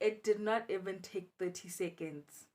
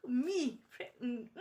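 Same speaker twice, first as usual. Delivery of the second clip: laughing disbelief; 6 semitones higher, 4 dB louder, slower than usual. Retold or imitated. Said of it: "Guys, I was like".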